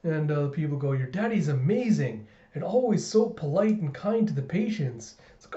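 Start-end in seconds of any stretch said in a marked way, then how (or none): 0.9-5.2 higher, lilting admiration; gushing praise. Acted. Colleagues praise papa to his daughter, gushing. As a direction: lightly gush to a child about her father.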